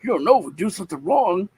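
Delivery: put-on anxious child. Nicholas warning Robert about dad, high anxious child. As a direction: press the warning like a worried kid.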